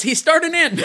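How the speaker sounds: loud laughter, high and bright; laughing. Real, not acted. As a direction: laugh through the words. Laughing about Paul Rudd.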